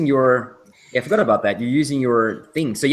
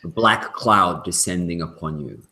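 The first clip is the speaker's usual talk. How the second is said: game master narration. A narrator's reading. GM describes the raven flock descending to the party. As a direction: draw the players into dread. GM scene setting.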